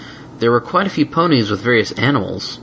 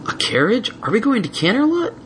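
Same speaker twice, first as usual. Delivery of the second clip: buzzing excitement; 13 semitones higher than usual. A narrator's reading. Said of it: "all but buzzing with excitement".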